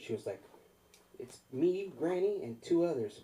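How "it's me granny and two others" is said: high, loud, slowing mock granny; elderly lady. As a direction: list the party as a bold old lady. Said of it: "it was an elderly lady".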